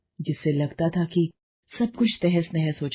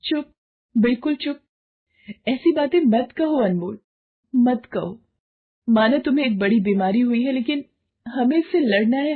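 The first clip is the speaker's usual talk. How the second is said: higher, forceful rallying speech; fierce loving wife; 4 semitones higher than usual. Acted. Wife hushes husband and urges him to fight, higher. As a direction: hush him and fire him up.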